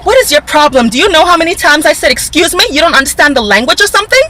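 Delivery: put-on a hostile old man snapping, only partly reproduced; imitating a hostile man. To the vlogger on the sidewalk, imitating a hostile man. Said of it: "I can't even put the type of hostility in my voice".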